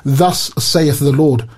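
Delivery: slow, measured prophetic quote; a solemnly spaced-out scripture quote; quoting Isaiah. Retold or imitated. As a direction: pronounce it slowly, like a prophet. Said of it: "Isaiah would say something like".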